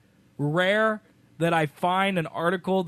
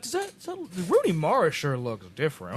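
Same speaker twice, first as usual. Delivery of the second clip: dumb moviegoer voice; 3 semitones lower than usual. Pretend. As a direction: play a clueless Southern filmgoer. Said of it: "our dumb moviegoer voice are just Southern idiots".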